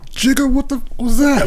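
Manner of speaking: shocked outburst. Retold or imitated. Friend retells his shocked reaction to Phil, high and incredulous. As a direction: blurt it out in total disbelief. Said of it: "it was along the lines of".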